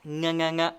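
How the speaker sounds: "Ng" hummed at the back of the mouth; back ng sound. Shown as a demonstration. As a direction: hum the ng with the back of the tongue. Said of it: "the back of my mouth".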